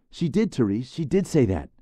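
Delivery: high, loud eager agreement; eager boy. Acted. Khan confirms to Therese, high eager boy. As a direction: back up your friend keenly.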